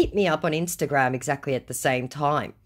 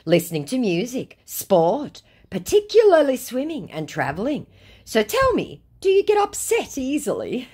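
higher, louder, rising mockery; mock scammer voice; 9 semitones higher, 4 dB louder than usual. Scammer copying her hobbies, mocked in a high voice. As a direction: ham up the scammer's checklist questions.

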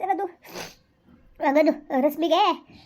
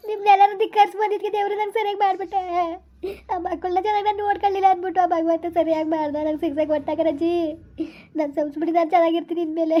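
crying, begging forgiveness. Acted. Granddaughter begs grandmother's forgiveness on the phone, crying. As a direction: beg through tears, voice dropping away. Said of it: "ಸುಮ್ಕಿರು, ಅಳ್ಬೇಡ".

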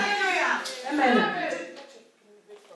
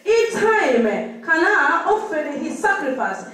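measured, deliberate reading aloud; scripture reading; much slower than usual. Acted. Sister reads the passage to the congregation, deliberate scripture reading. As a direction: read out the Bible passage phrase by phrase.

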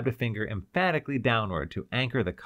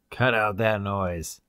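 a rasp through a ceiling loudspeaker; rasping over speaker; 4 dB louder, slower than usual. Acted. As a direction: bark it down from the speaker. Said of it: "came raspingly from a speaker".

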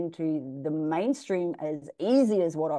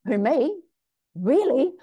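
higher and louder, giddy who me; thrilled disbelief; 6 semitones higher, 5 dB louder, slower than usual. Retold or imitated. Asked to play Dirty House, giddy higher disbelief. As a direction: gush like a kid handed a prize. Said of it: "I was like".

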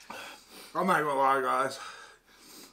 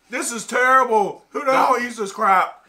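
after eating wasabi; 8 semitones higher, 10 dB louder than usual. Real, not acted. Mouth burning from spicy chip.

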